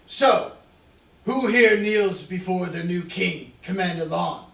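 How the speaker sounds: calling to crowd. Acted. Calling out to the people.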